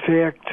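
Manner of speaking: "fact" with its A sounded as "air". Shown as a demonstration. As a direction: give "fact" an air-like vowel. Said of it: "gonna be pronounced as air".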